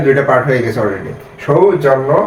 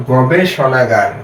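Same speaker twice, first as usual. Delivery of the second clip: slow, carefully sounded-out word; slow demo reading; much slower than usual. Shown as a demonstration. Teacher to reading students, slowly sounding out the word. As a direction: read it out slowly for the learners. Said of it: "এটা হচ্ছে".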